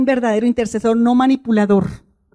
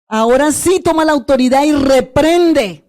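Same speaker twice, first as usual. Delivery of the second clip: forceful exhortation; 3 semitones higher, 4 dB louder, slower than usual. Real, not acted. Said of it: "preacher exhorting the church".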